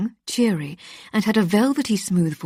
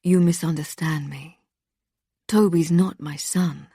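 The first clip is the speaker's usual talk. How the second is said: lifeless and measured, slowing on the second line; deadened tone. Acted. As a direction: drain every bit of feeling from it. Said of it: "delivered in a deadened tone".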